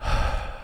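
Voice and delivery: long, soft sigh of letdown; disappointed sigh. Real, not acted. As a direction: let the air out, let down.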